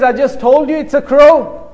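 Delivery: retold impatient answer, voice lifting; exasperated retort. Grown son answers his old father's repeated question, exasperated.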